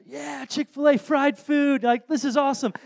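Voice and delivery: put-on high, thrilled little-kid cheer; freaking out. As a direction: imitate an overjoyed small daughter. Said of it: "She freaks out".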